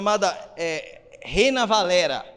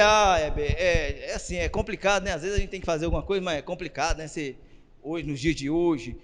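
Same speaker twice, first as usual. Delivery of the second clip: mock hedging; 3 semitones lower, 5 dB quieter than usual. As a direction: imitate someone hesitantly making excuses, low and soft. Voicing people who hedge and dodge.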